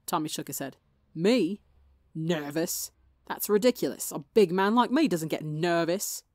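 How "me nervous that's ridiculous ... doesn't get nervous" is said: louder, forced cocky boast that rings hollow; forced bravado. Acted. Tommy denying nerves to Wilbur, weak forced bluster. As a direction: fake the swagger badly. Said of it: "tried to go for his usual brand of loud and obnoxious, the attempt was weak".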